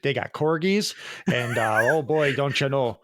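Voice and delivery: terribly faked British accent; mock British accent. Host riffing on the royals with co-host, badly faked British accent. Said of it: "two guys with accents just like ours".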